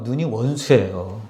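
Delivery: quiet, slow punchline; soft answer. Real, not acted. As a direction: let the answer fall quietly. Refrain answer, dropped soft.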